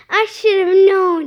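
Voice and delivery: angry blame. A narrator's reading. Missus Finnegan blaming Marvin, angry retort. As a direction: say it with a touch of outrage.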